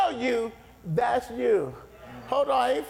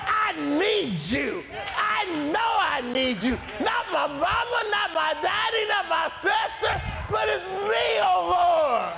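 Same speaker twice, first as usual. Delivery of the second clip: crying out for mercy; 5 semitones higher than usual. Pretend. Believer calling out to God for mercy, pleading shout. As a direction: throw it up to heaven, begging. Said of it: "you ought to be yelling out".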